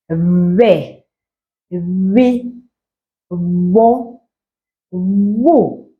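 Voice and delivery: Ve, vi, vo, vu with the lips buzzing; buzzing b syllables. Shown as a demonstration. Teacher drilling learners, buzzing. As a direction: buzz each syllable, lips almost closed. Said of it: "a bit of a buzzing sound".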